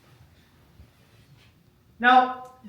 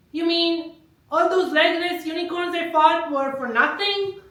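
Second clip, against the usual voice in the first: higher-pitched disbelieving protest; higher, aggrieved mock outrage; indignant pawn; 5 semitones higher than usual. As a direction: voice a little pawn's incredulous question. Acted pawn protests to CEO.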